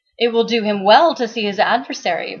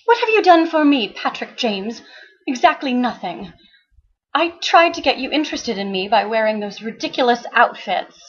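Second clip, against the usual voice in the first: higher, scornful woman's voice; Becky's voice; 4 semitones higher than usual. Acted. Becky scolding the detective, higher and scornful. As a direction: voice her bitter reproach, a touch higher.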